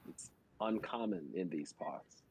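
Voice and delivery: laying it on thick, slowly; slow flattering voice. Acted. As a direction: sweet-talk the guard slowly. Flattering the guards in character.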